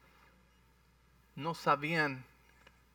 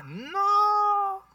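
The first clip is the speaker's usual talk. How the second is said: emphatic no; 5 dB louder than usual. Real, not acted. Preacher rejecting the objection.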